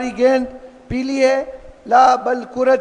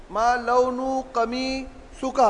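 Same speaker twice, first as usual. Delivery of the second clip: ما لون قمیصک stretched out very slowly and much softer; very slow, softer drill; 9 dB quieter, much slower than usual. Shown as a demonstration. Teacher slows the question right down for students, quiet and drawn out. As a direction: spell out each word of ما لون قمیصک slowly for students to copy. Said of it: "لو-، ما لون قمیصک،".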